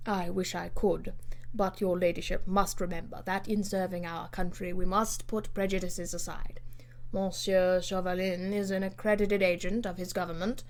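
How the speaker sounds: hushed, half-whispered caution; discreet reply. Acted. Lord Grenville answers Lady Portarles discreetly, half-whispered.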